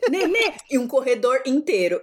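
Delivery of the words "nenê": put-on toddler voice.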